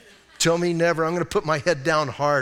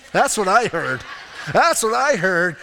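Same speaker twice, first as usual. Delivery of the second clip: punchy, louder on the repeat; excited insistence; 4 dB louder than usual. Retold or imitated. Pastor retelling his hopeful reply to a discouraging official, excited insistence. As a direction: pounce on the slim chance. Seizing on a slim chance.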